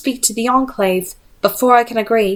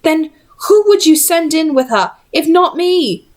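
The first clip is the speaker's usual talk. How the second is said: raised, high insistent challenge; demanding; 8 semitones higher, 3 dB louder than usual. Acted. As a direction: push back hard at Charlotte. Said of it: "Will demanded".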